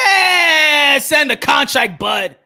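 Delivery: loud, insistent call to send it; shouted demand. Real, not acted. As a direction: yell it at Bud.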